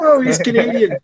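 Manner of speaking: mock Canadian accent, high and loud. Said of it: "You're like".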